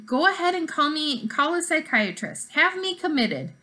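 throwing up his hands in words; exasperated. Acted. Jackson exasperated.

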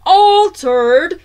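loud, high burst of disbelief; outraged shout. A narrator's reading. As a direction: shout it back as a stunned question. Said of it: "shouted Mister Jenkins".

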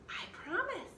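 put-on high, eager little girl's promise; a bright-eyed sister promising sweetly; Annie's voice. A narrator's reading. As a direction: chirp it up high like an excited kid.

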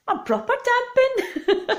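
high, slow words through laughter; laughing. Real, not acted. Amused by her surprise Welsh ancestry, laughing. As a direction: squeal it out while laughing.

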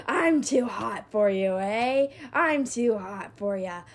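loud, swaggering brag; cocky taunt. Real, not acted. Player bragging to the enemy while on fire. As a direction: gloat at them.

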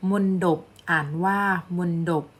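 มนดบ read "mon-dop", with a d. Shown as a demonstration. Teacher reading an example to students, มนดบ with a d sound. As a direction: say มนดบ with a clear d on the second syllable. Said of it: "ทอมุนโทออกเสียงดอนะคะ".

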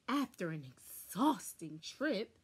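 ordinary delivery, nothing marked

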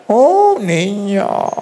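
a mother shocked at the question about deworming; startled exclamation. Retold or imitated. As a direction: gasp it out in shock.

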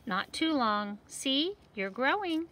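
lively seed voices for a picture book; talking seed characters. Acted. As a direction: voice the little seeds for kids. Seeds describe their growth.

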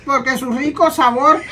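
halting script reading; careful reading. Shown as a demonstration. Mother told to read it well, careful reading. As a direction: read it out carefully, pausing mid-sentence. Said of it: "Léelo bien y léelo lento".

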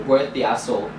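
"hassle" with the H dropped, like "asshole"; Italian-style silent H on "hassle". Real, not acted. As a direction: say "hassle" with no H at the start. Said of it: "It sounded like asshole".

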